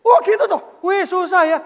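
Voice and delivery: loud, high, hammed-up "oh gitu toh"; husband pretending rapt empathy for his wife; mock eager sympathy. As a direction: gush over her story like a keen listener. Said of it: "saya responi".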